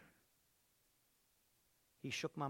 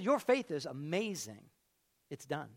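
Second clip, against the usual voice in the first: calm Jesus; 6 semitones lower than usual. Retold or imitated. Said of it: "He said".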